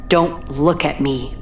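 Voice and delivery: slow, worn-out voice; a used-up, weary plea; tired voice. Acted. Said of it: "It was a tired voice".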